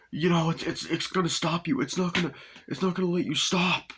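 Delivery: high-pitched mock warning; imitated wife. Wife warned in the car, high imitated woman's voice. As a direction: act out a woman's insistent warning. Wife's warning in retold scene.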